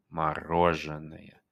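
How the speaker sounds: "Мороженое" slowly, all five syllables clear; drilling a long word; slow syllable demo. Shown as a demonstration. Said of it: "Five syllables".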